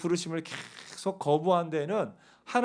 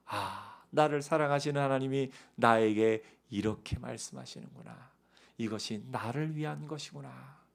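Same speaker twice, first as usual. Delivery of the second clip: quiet realization; 4 semitones lower, 6 dB quieter than usual. Retold or imitated. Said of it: "하면은 그 말씀에 순종하면서".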